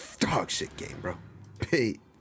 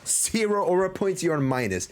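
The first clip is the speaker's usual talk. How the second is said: excited rant; 5 semitones higher than usual. Real, not acted. Ranting at character, aura points.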